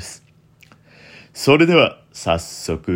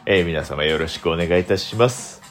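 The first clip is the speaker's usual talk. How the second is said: mock heartthrob voice for the greeting; put-on ikebo voice. Shown as a demonstration. Host greeting listeners in a hammed-up handsome voice. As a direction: greet them like a self-styled hunk. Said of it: "このような声でお送りしたい".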